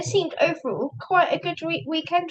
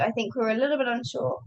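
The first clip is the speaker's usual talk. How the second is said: losing her voice, a bit hoarse; 3 dB quieter, faster than usual. Real, not acted. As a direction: speak through a voice that's going hoarse. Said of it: "I'm losing my voice".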